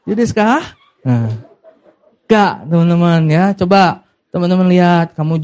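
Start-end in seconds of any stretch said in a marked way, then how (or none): 0.1-0.6 Japanese accent. Shown as a demonstration. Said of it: "logat Jepang".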